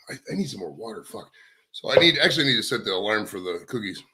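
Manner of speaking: winded from running back in; out of breath. Real, not acted. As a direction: talk while still catching your breath. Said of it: "Gotta catch my breath 'cause I ran back out here".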